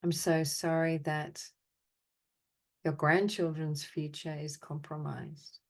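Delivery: deliberate, evenly spoken phrases with long pauses; guided apology meditation. Acted. Meditation leader answering the group's sadness and anger with measured apologies. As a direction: offer each apology, then leave silence. Offers apologies to participants' named feelings.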